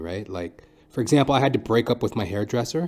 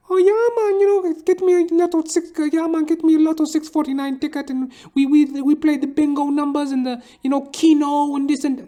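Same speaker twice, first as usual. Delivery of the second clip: much higher, louder gambling buddy; barber's friend; 5 dB louder than usual. Retold or imitated. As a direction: squeal the lottery order excitedly. Another friend talking gambling.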